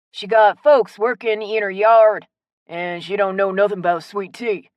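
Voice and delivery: hearty local man with stretched vowels; teasing Southern shopkeeper. Acted. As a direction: tell on her, good-natured.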